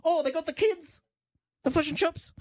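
high-pitched mock New Zealand accent; off-target Kiwi accent. Guest mocking Meryl Streep's movie accent, hammed-up high Kiwi accent. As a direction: exaggerate a bad Australian accent that lands as Kiwi, way up high. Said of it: "sounds more like a Kiwi accent".

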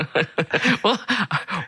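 breaking into laughter; can't hold a straight face; laughing. Real, not acted. Laughing at failed impression.

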